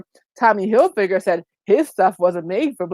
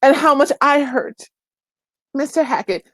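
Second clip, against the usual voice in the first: higher-pitched imitation of a tearful apology; mock tearful apology; 5 semitones higher than usual. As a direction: mimic a crying apologizer, lightly. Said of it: "she's crying and she's in tears".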